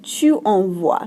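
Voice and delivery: "envoies" ending in a clear "wa"; wa sound. Shown as a demonstration. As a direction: slowly model "envoies" with a wa ending. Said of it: "makes that wa sound".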